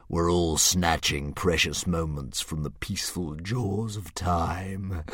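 slow, a hint of a grand beast; drawn out like a pleased old dragon; lightly voiced dragon. Dragon musing over Hiccup's riddle, slow and lightly grand.

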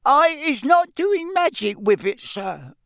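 high squeaky elf squeal. Acted. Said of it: "squealed Winky".

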